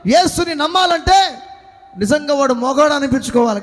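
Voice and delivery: emphatic, projected sermon delivery; full-force preaching. Real, not acted. Preacher telling believers who is righteous, full-force preaching. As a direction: drive it home to the congregation.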